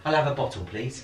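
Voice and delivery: Mickey Flanagan bit. Retold or imitated. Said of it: "his thing where he goes".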